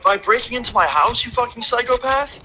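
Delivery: high, incredulous angry yell; retold outrage. Calling the ex's mom a psychopath on his porch, high angry yell.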